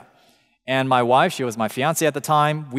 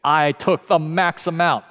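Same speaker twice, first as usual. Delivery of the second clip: slow, offhand boast; casual, unbothered mock boast; nonchalant. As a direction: toss it off like it's no big deal. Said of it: "people nonchalantly say".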